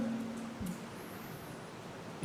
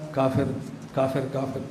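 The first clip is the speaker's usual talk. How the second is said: parrot voice; 4 semitones lower, 7 dB quieter than usual. Retold or imitated. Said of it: "طوطا کہتا".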